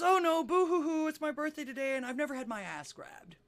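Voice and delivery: high, loud boo-hoo wail, easing off. Acted. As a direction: bawl it out in hammed-up self-pity, pitched high. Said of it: "She starts to cry even louder".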